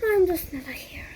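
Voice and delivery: fast, breathless whispered giving up; sad whisper. Acted. Golden giving up in bed, fast sad whisper. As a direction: sigh it out defeated.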